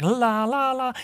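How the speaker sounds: playful singsong la-la for a glowing star; imitated glow sound. Showing congregation how the star glows, imitated glow sound. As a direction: mimic a glow switching on.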